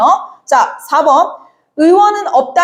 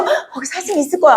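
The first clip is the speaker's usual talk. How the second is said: gasp, then a quick hopeful line; mock eager rush after a sharp intake of breath; excited gasp; 3 dB quieter, faster than usual. Teacher acting out a dreamer sure of a deer, quick excited gasp.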